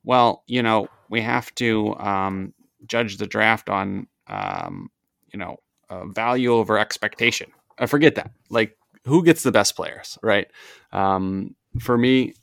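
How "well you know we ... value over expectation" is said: lightly voiced nerdy podcaster; a hint of know-it-all nerd. Shown as a demonstration. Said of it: "this is my nerd voice".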